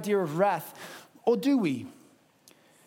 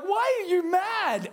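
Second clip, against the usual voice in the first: much higher, slow incredulous question; mock baffled whine; 11 semitones higher, slower than usual. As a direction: play the clueless Israelites, pitched way up.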